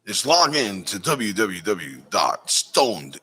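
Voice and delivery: slow, spelled-out web address plug; ad read. Acted. Host sending viewers to the website, ad read. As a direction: stretch out the website like a promo. Reads membership ad to audience.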